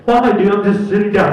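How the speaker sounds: loud indignant whine; hammed-up complaint; mock protest. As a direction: protest innocence. Buddy protests to guards.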